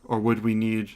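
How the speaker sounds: lightly voiced reserved goddess, with deliberate pauses; measured, formal goddess. Goddess apologizes and asks about forging a weapon, lightly measured. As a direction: apologize with restrained, careful formality.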